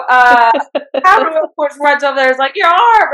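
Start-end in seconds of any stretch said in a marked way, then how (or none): 0.1-1.4 getting choked up. Real, not acted. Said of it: "I'm getting all worked up". 2.6-3.1 much higher and louder, a shocked cry; alarmed cry. Retold or imitated. Haru runs to injured brother.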